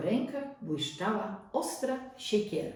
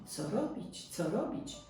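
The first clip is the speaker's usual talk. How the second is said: anxious thought; 5 dB quieter than usual. A narrator's reading. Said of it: "Chłopiec myślał gorączkowo".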